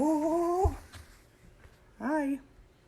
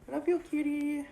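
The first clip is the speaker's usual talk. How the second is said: high gushing I love you; 9 semitones higher than usual. Real, not acted. Owner gushing high-pitched at her cat.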